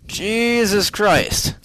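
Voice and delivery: shocked. Real, not acted. Reacting to ticket price.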